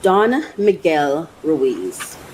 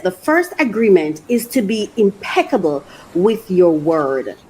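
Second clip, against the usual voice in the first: reading aloud. Acted. Reading the book's words to viewers, measured. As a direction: read the quote out, steady and measured. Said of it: "It says".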